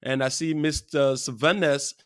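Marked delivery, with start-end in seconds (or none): 1.2-1.9 careful, correct Sylvanus, ending on a clear s; real pronunciation. Shown as a demonstration. Host greeting a viewer by his name, proper pronunciation. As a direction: say Sylvanus in the proper way, all syllables. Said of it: "pronounce it in the real way".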